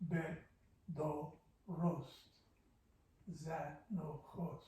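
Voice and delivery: "Be, do, rost" broken into separate syllables. Shown as a demonstration. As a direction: tap out each syllable with a pause. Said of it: "I can have three syllables at the end".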